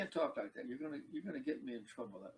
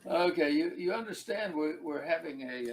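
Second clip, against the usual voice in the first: much louder announcing voice; 9 dB louder than usual. Acted. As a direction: project it to the whole room. Addresses audience loudly.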